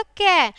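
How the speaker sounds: "कै" with its ए vowel held clearly; vowel sounded out. Shown as a demonstration. Teacher showing children the built-in vowel, "कै" sounded out. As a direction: sound out "कै" so the final ए is heard. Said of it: "ए की ध्वनि आएगी".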